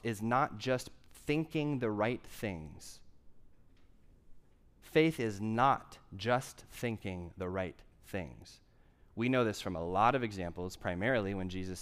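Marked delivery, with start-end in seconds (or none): 0.0-8.6 slow, deliberate sermon stress; slow, weighty repetition. Shown as a demonstration. Preacher to congregation, repeating slowly for emphasis. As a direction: drive the point home word by word. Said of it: "Faith, first and foremost".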